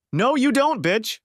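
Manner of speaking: very high, loud, mocking contempt; wife taunts her husband's mistress, loud and scornful; scornful snap. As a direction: fling it at her like an insult. Judy scorns the cheating wife.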